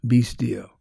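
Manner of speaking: Peace called, be still whispered; whispered command. Shown as a demonstration. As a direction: breathe be still like a secret. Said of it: "You walk through your homes".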